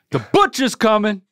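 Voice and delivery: butcher's said as butcha, no R. Shown as a demonstration. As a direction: drop the R: butcha's coming. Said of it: "don't put an R on butcher".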